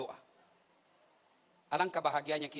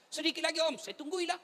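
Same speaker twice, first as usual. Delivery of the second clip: put-on childish plea; 11 semitones higher than usual. Nephew's reply voiced.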